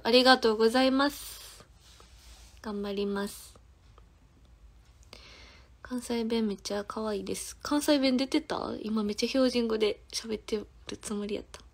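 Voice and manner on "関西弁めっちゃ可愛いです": whispered reading. Real, not acted. Reading comment softly.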